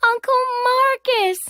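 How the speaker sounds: put-on a girl spotting her favourite uncle; joyful surprised shout; surprised exclaim. A narrator's reading. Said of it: "I exclaimed with surprise".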